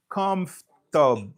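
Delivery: slow comfortable squeezed to "cumf-ter"; American pronunciation. Shown as a demonstration. Teacher contrasting with British, American pronunciation. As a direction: say comfortable American style, dropping a syllable. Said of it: "But nan angle ameriken".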